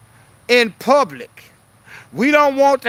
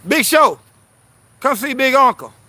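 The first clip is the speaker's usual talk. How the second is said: calling the dog; 2 semitones higher than usual. Real, not acted. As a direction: call his name across the room.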